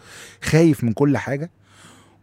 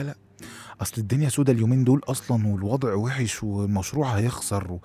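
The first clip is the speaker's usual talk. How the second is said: fearful inner voice; 2 semitones lower, 6 dB quieter than usual. Retold or imitated. Voicing fearful inner monologue alone.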